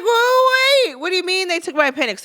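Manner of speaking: high, fast startled outburst; shocked. Retold or imitated. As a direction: blurt it out in sudden alarm. Shocked to hear appendix removed.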